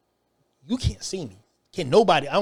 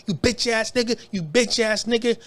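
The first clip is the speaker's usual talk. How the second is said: taunting; 5 semitones higher than usual. Retold or imitated. Retold taunting by cellmate.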